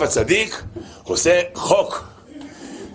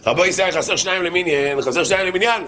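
calling out without real volume, higher pitch; mock shout; 4 semitones higher than usual. Rabbi calling for two more for the minyan, mock shout. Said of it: "הרב מרדכי אליהו צעק".

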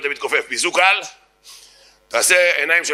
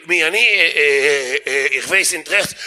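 stammering, caught-out fumbling; startled; slower than usual. Acted. Heckler thrown by the comeback, flustered stammer. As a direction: hesitate and trip over the answer. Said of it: "ואז הוא נבהל".

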